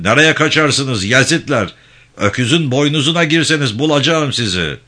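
loud, high threat; angry shouting. A narrator's reading. Gendarme chief threatens fleeing villagers, shouting angrily. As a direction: keep bellowing after them. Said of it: "diye bağırdı".

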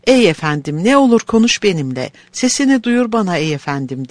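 pained, pleading voice. Acted. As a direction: beg through heartache. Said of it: "acı dolu bir sesle".

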